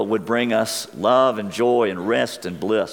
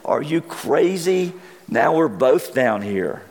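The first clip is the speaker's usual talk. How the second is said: slow, high mock disbelief; a touch of retold exasperation; exasperated; 5 semitones higher than usual. Trapped man scolds friend who jumped in, mild exasperation. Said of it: "says in complete exasperation".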